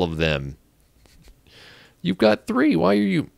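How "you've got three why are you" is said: high, exasperated outburst at a useless game character; frustrated. Real, not acted. Player fed up with a villager, exasperated high outburst. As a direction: pitch jumps way up in disbelief. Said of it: "Can you tell I'm getting a little frustrated".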